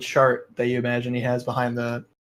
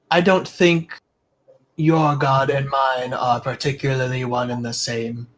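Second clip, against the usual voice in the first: kobold merchant. Acted. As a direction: politely brush off the priest as a small merchant. Kobold answers the priest.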